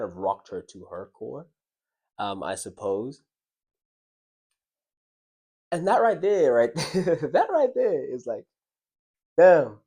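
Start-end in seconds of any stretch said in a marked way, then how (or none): 5.7-9.8 stunned. Real, not acted. Telling the listeners about her tears, loud amazement. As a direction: land the damn loud and amazed.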